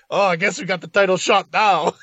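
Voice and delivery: Cajun Man. Retold or imitated. Podcaster mimicking a wrestler who slips into Cajun talk, mock Cajun accent. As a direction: lightly imitate a Cajun accent. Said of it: "starts talking like the Cajun Man".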